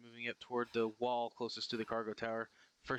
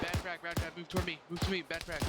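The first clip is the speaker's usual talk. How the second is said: higher, urgent warning cry; alarmed shout; 7 semitones higher than usual. Real, not acted. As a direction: yell the warning to get clear. Grenade bounced, warning teammates.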